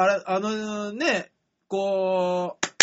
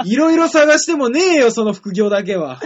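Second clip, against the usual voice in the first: exasperated comic retort; 2 semitones higher, 7 dB louder than usual. Real, not acted. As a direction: shoot the absurd suggestion down at full voice. Rejecting the absurd side job.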